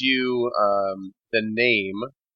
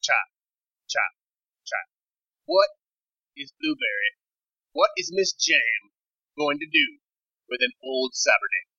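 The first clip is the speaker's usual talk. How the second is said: intense female dealer; 6 semitones higher than usual. Acted. GM plays Missus Jam.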